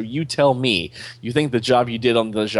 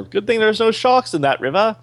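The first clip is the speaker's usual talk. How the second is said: sarcastic; 12 semitones higher, 4 dB louder than usual. Real, not acted. Sarcastic joke about sharks.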